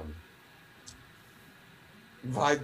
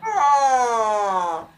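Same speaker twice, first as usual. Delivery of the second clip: high, loud mock-Irish "Oh."; hammed-up Irish "Oh."; 10 semitones higher, 9 dB louder than usual. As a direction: echo the Irish opener with a shout. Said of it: "start off every Irish accent with a".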